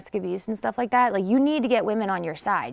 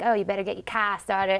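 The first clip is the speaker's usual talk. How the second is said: light imitation of a Boston accent. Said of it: "in a Boston accent".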